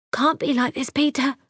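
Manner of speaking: high, pleading cry through the glass; a high desperate voice shouting at the window; desperate woman shouting. Acted. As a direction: beg him, raising the voice high.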